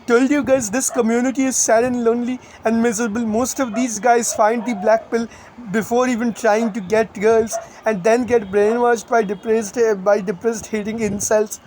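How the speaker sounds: lightly put-on stereotypical Indian accent. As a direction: read it in a mild Indian accent. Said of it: "I'm gonna read this out in the Indian accent".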